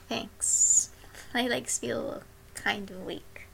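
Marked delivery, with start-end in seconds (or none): 1.3-3.5 whispering. Acted. Intimate soft remark.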